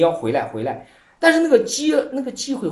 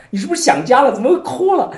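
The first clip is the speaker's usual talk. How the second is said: concerned fellow monk; 6 semitones higher, 5 dB louder than usual. Retold or imitated. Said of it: "问那个百丈".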